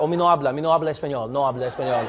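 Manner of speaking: low, smooth Spanish pronunciation; fluent Spanish accent. Retold or imitated. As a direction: rattle off the disclaimer like fluent Spanish. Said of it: "But instead I was like".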